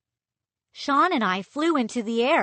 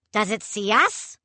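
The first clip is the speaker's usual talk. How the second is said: demanding; 3 dB louder than usual. Acted. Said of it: "Pepper demanded".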